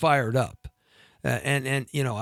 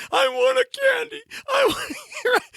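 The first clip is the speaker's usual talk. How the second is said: put-on whiny little boy. Actor mocking himself as a whiny child, high whine. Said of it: "whining like a little boy".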